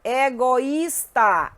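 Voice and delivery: "Egoísta" drawn out slowly, with the Í as its own stressed syllable; stressed hiatus I. Shown as a demonstration. Teacher showing a hiatus, slow "Egoísta" with stressed, separate Í. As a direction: stretch "Egoísta" and punch the separate Í. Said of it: "o I".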